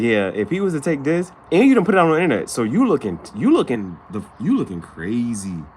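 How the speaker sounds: loud, rising call-out to her. Retold or imitated. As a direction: tell her off loudly.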